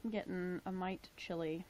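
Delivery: soft unvoiced whisper. Real, not acted. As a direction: whisper it to yourself. Quiet aside while cold.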